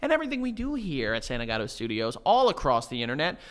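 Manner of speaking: fast outro plug. Acted. Podcast outro plugs.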